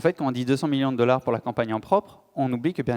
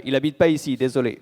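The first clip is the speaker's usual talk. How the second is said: lightly acted, louder brush-off; dismissive resident; 6 dB louder than usual. Resident watching TV turns away a door-to-door canvasser, mock-dismissive. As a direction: imitate someone calling out a curt reply.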